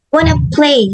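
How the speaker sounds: wanna play said fast and linked. Shown as a demonstration. Teacher demonstrating the reduced wanna. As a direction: run want and to into wanna. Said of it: "Example three".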